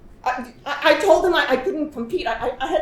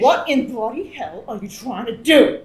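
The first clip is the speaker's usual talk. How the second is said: agitated Australian; slower than usual. Acted. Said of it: "Her Australian accent has returned stronger in her agitation".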